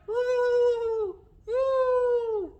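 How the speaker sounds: very high, long hooted trumpet call; elephant trumpet. Shown as a demonstration. Teacher showing elephants trumpeting, high hooting call. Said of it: "Elephants trumpet".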